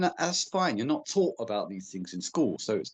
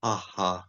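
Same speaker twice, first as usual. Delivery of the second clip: breathy throat exhales. Shown as a demonstration. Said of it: "through the back of the throat".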